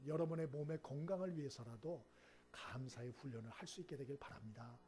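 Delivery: ordinary talk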